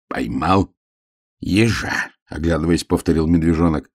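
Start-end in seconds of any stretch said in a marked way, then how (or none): 0.1-2.1 halting word-by-word reading; по складам. A narrator's reading. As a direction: read it out slowly, piece by piece. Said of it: "по складам прочитал". (читает по складам)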